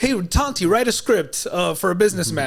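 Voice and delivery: high-pitched hammed-up wise guy; mock movie tough guy. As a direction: put on a pushy, high character voice. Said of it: "it suits him to be like".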